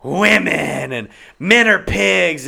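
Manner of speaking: drawn-out, mocking complaint; mocking tirade. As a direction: imitate her rant, stretching the words. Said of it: "she's so fucking, like".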